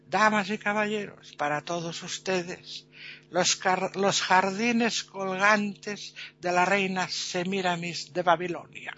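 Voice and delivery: slow, drawn-out stage announcement; showman presenter. Acted. Presenter introduces the hanging gardens to the crowd, grand slow announcement. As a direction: stretch out each phrase as you present the wonder.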